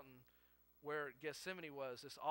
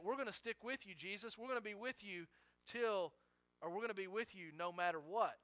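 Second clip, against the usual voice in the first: higher-pitched, imitated eager promise; less emphatic pledge; 4 semitones higher than usual. Disciples promising Jesus they will stay, higher, mildly emphatic pledge. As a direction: pledge loyalty in a raised voice without much force. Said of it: "Maybe they didn't say it as emphatically as Peter".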